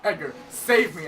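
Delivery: acted plea for rescue. Acts begging friend for rescue.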